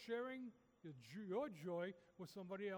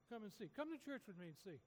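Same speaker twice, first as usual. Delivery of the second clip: softer, gentle personal invite; soft invitation; 5 dB quieter than usual. Shown as a demonstration. Preacher showing how to invite a neighbour, soft and gentle. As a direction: say it quietly, like to one friend. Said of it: "we could say the same thing to people".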